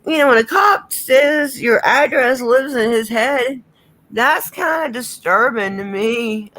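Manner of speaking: slow, tearful and choked up; crying. Real, not acted. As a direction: voice breaking with real tears. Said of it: "except for when I was crying".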